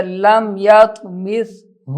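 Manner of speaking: slow tajweed with held n; Quran recitation. Shown as a demonstration. Teacher demonstrating a phrase, slow recitation. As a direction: linger on the doubled n.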